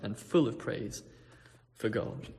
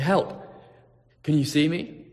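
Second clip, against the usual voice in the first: calling out; 3 dB louder than usual. Acted. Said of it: "he starts to wave and he starts to say".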